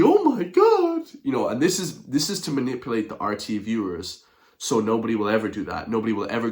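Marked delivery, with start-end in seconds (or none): 0.0-1.1 much higher, louder, slow "Oh my God!"; exaggerated, stretched mock outrage; mock horror. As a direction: ham up the presenter's shock. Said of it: "Like, completely".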